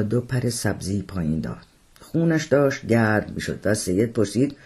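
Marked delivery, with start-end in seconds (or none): none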